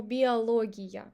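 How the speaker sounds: биология drawn out, ending ee-ya; unreduced final Я. Shown as a demonstration. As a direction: slowly end биология on a clear ya. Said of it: "In the end, I'm saying ия".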